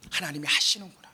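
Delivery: low, near-whispered dawning awareness; soft, awed murmur to oneself; hushed realisation. Retold or imitated. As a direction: let it sink in under your breath. Acting out the missionary's quiet realisation.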